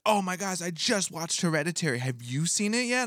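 put-on high, gushing girl voice; mock excited gush. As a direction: gush like a starstruck friend. Acted friend's excited quote.

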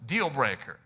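lightly put-on Cajun accent; a touch of Cajun in the voice. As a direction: imitate a Cajun man's accent. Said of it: "Cajun accent".

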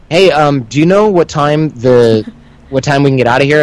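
acting as if it's a normal chat; breezy, unbothered mock-innocent question; feigned casual calm. Prisoner to yelling cop, casually calm. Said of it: "pretending like he's talking normally to me".

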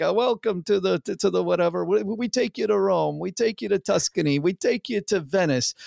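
a hint of hammy Italian tour guide; bad Italian accent. Tour guide from an old school Italian family welcoming tourists, mock Italian accent. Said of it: "does this really bad Italian accent".

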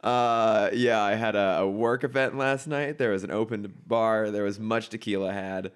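rough, gravelly morning-after voice; gravelly hungover voice. Real, not acted. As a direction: gravelly voice after a night of tequila. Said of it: "sexy, gravelly voiced Chris is back".

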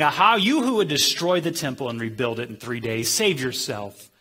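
retold taunt, slowing on the last words; derisive jeer. Passers-by deriding Jesus on the cross, mocking. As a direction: jeer at him as you quote. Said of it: "those who passed by derided".

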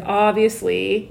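drawn-out obviously, rising at the end; slow, lilting stock answer; canned response. Acted. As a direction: stretch it out like an automatic reply. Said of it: "I'd be like".

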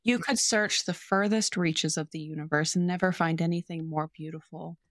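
a touch of tender earnest recitation; reciting love declaration. Retold or imitated. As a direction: read the confession as if meaning it. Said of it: "and I quote".

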